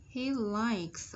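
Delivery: "he likes" ending in clear K plus S; final S sounded. Shown as a demonstration. Teacher showing the ending sound, "he likes" with sounded S. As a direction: model "he likes" and hold the closing S. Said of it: "Ở đây là S ending sound".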